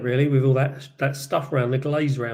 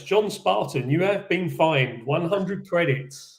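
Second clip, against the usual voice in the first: automated voice; 3 semitones higher, slower than usual. Retold or imitated. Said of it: "like, automated voice".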